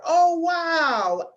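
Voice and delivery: bright surprised exclamation up high; head voice demo. Shown as a demonstration. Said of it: "put a one hand or two on your head".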